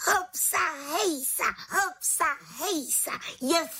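very high, ringing "Hopsa, hejsa"; jubilant cheer. A narrator's reading. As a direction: cheer with pure joy. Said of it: "jásala malá čarodějnice".

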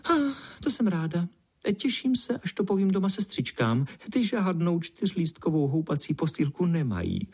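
put-on very high, bubbling girlish delight; the ladybird thrilled about her cradle, voiced very high; delighted exclaim. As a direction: squeal with joy at the news. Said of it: "pinkalinka zvolala".

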